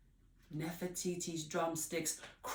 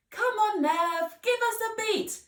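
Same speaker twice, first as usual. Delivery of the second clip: high, loud, impatient coaxing; impatient urging; 10 dB louder than usual. Acted. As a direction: hurry her along. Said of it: "said Miss Potts again".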